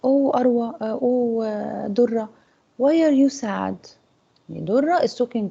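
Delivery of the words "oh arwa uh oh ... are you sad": a touch of a concerned friend; worried friend. Acted. Friend on the phone hearing sadness in her voice. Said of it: "and she says to you".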